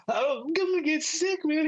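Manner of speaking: high-pitched mock panic; retold panic. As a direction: plead in a comic, very high voice before throwing up. Retold panic with face in canister.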